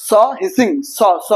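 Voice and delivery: a long hissed স sound; hissing s. Shown as a demonstration. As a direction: demonstrate the hissing স. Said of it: "স এর উচ্চারণ আসবে".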